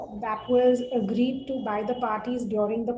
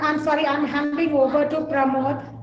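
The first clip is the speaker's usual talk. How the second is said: choppy breaking-up audio; call dropping out. Real, not acted. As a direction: voice cutting in and out. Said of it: "You're breaking up a lot now".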